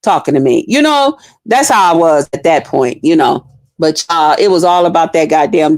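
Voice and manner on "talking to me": quick, mild mock snap at her; just get in the car; impatient inner voice. Driver's thought toward the chatty passenger, mild mock impatience. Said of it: "I'm just like".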